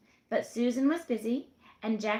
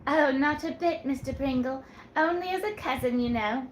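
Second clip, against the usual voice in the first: put-on higher, teasing young woman's voice; coy young woman; 4 semitones higher, 3 dB louder than usual.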